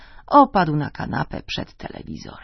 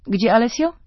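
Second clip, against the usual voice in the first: wife's question; 6 semitones higher, 6 dB louder than usual. Acted. Wife asks about son.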